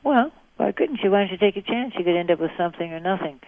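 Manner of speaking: offhand retold shrug of an answer; casual reply. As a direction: toss it back casually, imitating someone unbothered. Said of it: "looked up at me casually and said".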